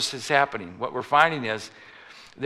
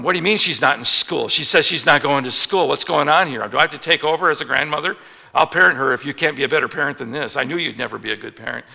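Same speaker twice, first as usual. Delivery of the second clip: angry grandmother; 6 dB louder, faster than usual. Retold or imitated. Grandma scolding the parent.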